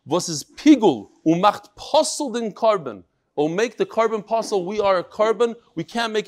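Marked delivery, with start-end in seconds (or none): 0.1-3.0 Litvish Yiddish. Retold or imitated. Rabbi reads a martyr's last words to his class, Litvish Yiddish. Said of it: "in the Litvish Yiddish".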